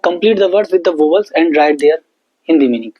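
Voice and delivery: very slow worksheet instruction; slow dictation. Shown as a demonstration. Teacher reading the worksheet instruction slowly to pupils. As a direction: read the task aloud slowly. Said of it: "teacher reads worksheet instruction".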